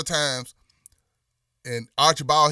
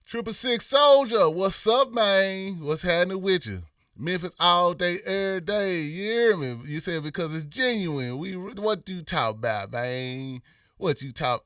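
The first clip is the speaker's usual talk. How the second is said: Memphis talk; 3 semitones higher than usual. Shown as a demonstration. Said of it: "It's natural to talk like this".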